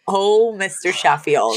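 slow, drawn-out mock moan of the name; hammed-up breathy call, slowly; mock climax cry. Host imitating Fran calling out mid-climax, slow mock moan. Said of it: "she literally calls out".

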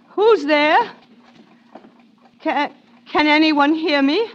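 frightened calling out. Acted. Trapped woman calling out.

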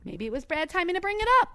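put-on small high-pitched voice, Jersey accent. Fiancée backing off after Vinny's rant, meek Jersey accent. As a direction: back down meekly in a Jersey accent. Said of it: "I'll do it in a Jersey accent".

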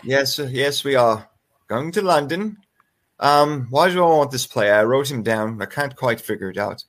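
light mock British accent; casual put-on British English. Hunting through fantasy notes, keeps up a mock British accent. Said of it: "Are we British now?".

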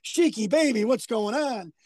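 lightly voiced smooth wrestler drawl on baby; a hint of Johnny Valiant soothing a friend; imitating Johnny Valiant. Telling the Sheik story, lightly voiced Johnny Valiant consoling the Sheik. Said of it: "who talks like this".

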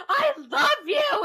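high, slow, hammed-up cry of love; mock love confession. Sudden love confession in story.

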